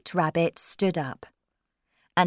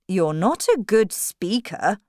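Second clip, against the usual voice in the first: understated royal irritation; mildly angry king; 3 semitones higher, 4 dB louder than usual. Acted. King scolding the Hatter, mildly angry. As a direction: scold with a touch of anger. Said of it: "the king said angrily".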